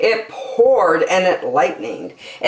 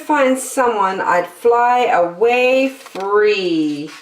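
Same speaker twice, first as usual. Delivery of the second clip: high bird voice; 6 semitones higher than usual. Acted. Lazy bird sighing to herself, high and dreamy. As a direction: float the line up high like a bird. Maisie the bird's voice.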